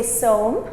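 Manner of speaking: som said short and clear with a closed m; polite word som. Shown as a demonstration. Teacher models som for students, clear careful pronunciation. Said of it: "as a polite way of saying please".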